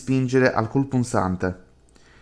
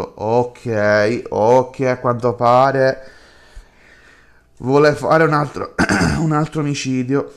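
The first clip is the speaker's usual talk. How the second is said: alarmed commentary; 3 dB louder, slower than usual. Real, not acted. Player reacts to murder plot.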